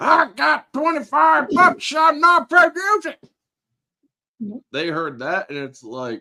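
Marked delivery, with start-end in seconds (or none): 0.0-3.1 very high, very loud hillbilly voice. Retelling how they scared some people off, hillbilly voice. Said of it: "I scared them off with a freaking hillbilly voice".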